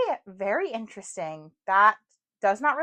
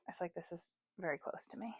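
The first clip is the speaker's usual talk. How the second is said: secretive whisper; 3 semitones lower, 18 dB quieter than usual. Real, not acted. Whispers then repeats aloud.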